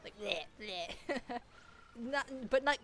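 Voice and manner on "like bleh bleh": mock retch. Shown as a demonstration. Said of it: "sound like you're trying to vomit".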